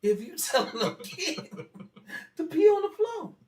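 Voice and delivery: put-on high, loud indignant child's protest, laughing partway. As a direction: rant it back, outraged and half laughing. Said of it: "I said to myself".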